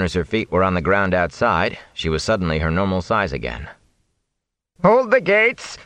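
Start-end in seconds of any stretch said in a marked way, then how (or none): 4.8-5.8 much higher, shaky shouted order; high unsteady shout. Acted. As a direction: yell after them, rattled. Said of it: "an unsteady voice shouted".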